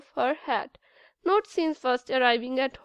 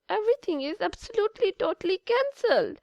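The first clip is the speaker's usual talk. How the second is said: fast emphatic; 7 semitones higher, faster than usual. Acted. Anna insists, fast.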